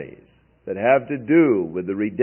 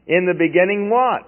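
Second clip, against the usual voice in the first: rising, higher mock question; 4 semitones higher than usual. Shown as a demonstration. Preacher mocking the godless origin, puzzled and higher. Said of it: "Well, that's not the beginning".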